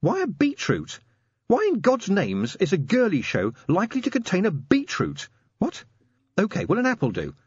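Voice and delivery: high-pitched incredulous questioning; baffled, exasperated sergeant; Angua, exasperated sergeant. A narrator's reading.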